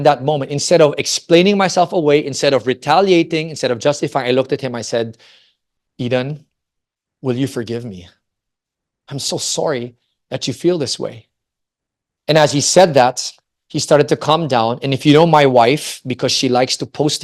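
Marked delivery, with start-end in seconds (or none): 6.0-11.3 soft, humble plea for forgiveness; quiet, tender retold apology; gentle apology, retold. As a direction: apologize softly to a hurting son, pausing between phrases. Retold humble apology to crying son.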